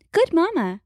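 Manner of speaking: calm the beast while scared; nervous soothing. A narrator's reading. Grace soothes the charging mother hexacorn, nervously. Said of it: "retreats to the back of the cage".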